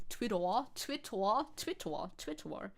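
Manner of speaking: "Twitter" tried in a German accent; German-accented "Twitter", repeated experimentally. Shown as a demonstration. Streamer practising how Germans say Twitter, German accent. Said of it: "how to say Twitter in a German accent".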